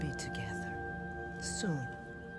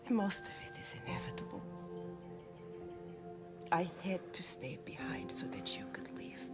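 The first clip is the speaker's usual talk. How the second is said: tender mother; 3 dB quieter than usual. Acted. Dead mother comforts her son.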